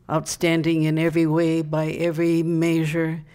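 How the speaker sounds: emphatic, measured verse reading; proud public declamation of comic verse; poem recital. Acted. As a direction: recite it to the crowd, line by line. Reads comic verse to audience.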